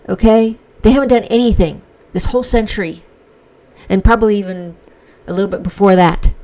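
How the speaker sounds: fired-up defense, pressing each point. Real, not acted. Vlogger defending Iran to viewers, loud and insistent. Emphatic rant.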